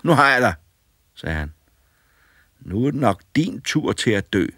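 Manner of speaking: gloating as he traps the beard; triumphant boy. A narrator's reading. Boy gloats over the trapped old man, high and loud.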